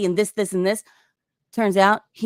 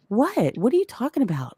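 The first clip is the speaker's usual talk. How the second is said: mock-innocent condescension, imitated; imitating her condescending innocence; 3 semitones higher than usual. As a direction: play dumb, talking down a little. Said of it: "her condescending tone".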